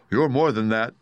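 a touch of hurt; grieved. Acted. Scarecrow reproaching the exposed wizard, grieved. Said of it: "in a grieved tone".

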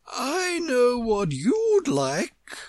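high, slow, good-natured Queen. A narrator's reading. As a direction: offer grandly, with long vowels. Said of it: "the Queen said good-naturedly".

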